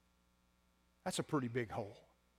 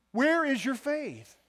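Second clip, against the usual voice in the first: forceful rebuke; 10 semitones higher, 7 dB louder, much slower than usual. Acted. Repeats the rebuke for emphasis.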